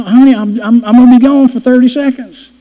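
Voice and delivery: high, sing-song voice for the dog; baby talk to dog. Retold or imitated. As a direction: coo at a pet who's gone wild. Soothing his frantic dog.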